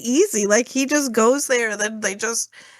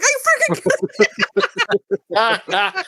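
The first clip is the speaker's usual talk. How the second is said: slow exasperated quote; 7 semitones higher, much slower than usual. Retold or imitated. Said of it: "he's like".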